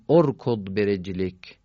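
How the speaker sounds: ارکض begun with "o": orkod; damma on alef. Shown as a demonstration. Teacher demonstrating the damma rule, ارکض said "orkod". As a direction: open ارکض on "o", then run into برجلک.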